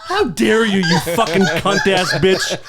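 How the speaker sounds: loud, slow, laughing fake fury; mock outrage. Host to cohost, mock outraged shout. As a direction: ham up the indignation through laughter.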